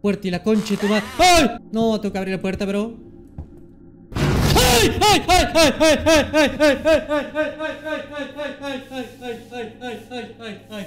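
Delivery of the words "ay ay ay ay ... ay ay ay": nervous laughing. Real, not acted. Scared, laughing cries fading.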